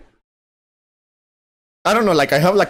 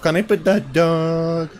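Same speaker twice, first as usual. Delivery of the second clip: quoting a meme; 3 semitones higher, much slower than usual. Retold or imitated. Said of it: "say to myself".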